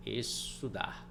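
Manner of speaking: "Estudar", drawn out as Es... tudar; syllable break. Shown as a demonstration. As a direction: say "Estudar" slowly in separated syllables. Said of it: "Olha como é que eles vão se separando".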